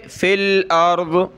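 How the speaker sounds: फ़िल अर्द with a short फ़िल, no long ई; short fil. Shown as a demonstration. Teacher showing students a short fil. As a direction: keep फ़िल short, no या sound. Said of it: "ये या नहीं पढ़ेंगे".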